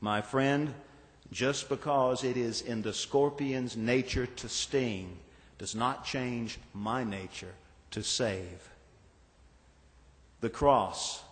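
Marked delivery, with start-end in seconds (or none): 0.0-8.7 put-on soft, calm old man's reply; a lightly voiced calm old man; calmly. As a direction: answer gently and unhurried. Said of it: "the old man said calmly".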